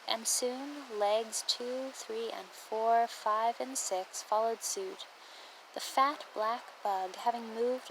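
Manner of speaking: measured poem recital with phrase-by-phrase pauses; poem reading. Real, not acted. Hiker sharing a trail poem about stopping, measured recital. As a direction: read it as verse, pausing between images. Resumes poem after a slip.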